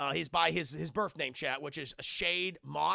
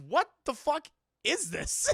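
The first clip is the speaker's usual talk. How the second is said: laughing disbelief; 7 semitones higher, 5 dB louder than usual. Real, not acted. Reacting to Hulk Jeep.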